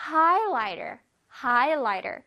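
"highlighter" with both first syllables stretched; long HIGH and LIGH. Shown as a demonstration. Teacher drilling pupils, both parts lengthened. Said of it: "엘아이 부분도 길게".

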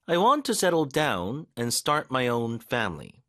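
slow model sentence stressing "want", "settle down", "family"; stress drill. Shown as a demonstration. Teacher modelling for learners in one run, "want" strongly stressed. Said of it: "강세 넣는 연습해볼게요".

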